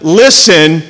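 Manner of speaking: "listen" said as its own separate part; the word listen set apart. Shown as a demonstration. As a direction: set "listen" off alone before the rest. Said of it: "two parts of that".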